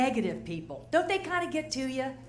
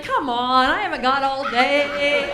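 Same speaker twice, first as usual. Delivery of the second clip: impatient demand; 6 dB louder, slower than usual. Retold or imitated. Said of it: "you're like".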